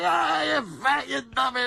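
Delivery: put-on sarcastic baby. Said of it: "And the kid's sarcastic".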